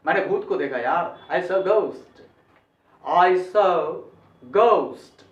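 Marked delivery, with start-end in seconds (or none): 1.3-5.2 "ghost" as "goust", no breath on g; English ghost. Shown as a demonstration. Teacher models the example sentence, "ghost" as "goust". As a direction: say "ghost" with hard g, gliding o. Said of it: "ऐसे बोलना चाहिए".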